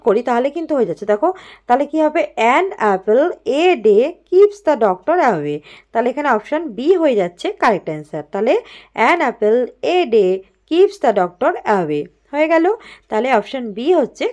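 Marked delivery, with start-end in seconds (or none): 2.5-5.6 teacher reading the answer slowly; slow model reading. Shown as a demonstration. Teacher reads filled-in sentence. 9.1-12.0 teacher reading the answer slowly; slow model reading. Shown as a demonstration. Teacher reads filled-in sentence.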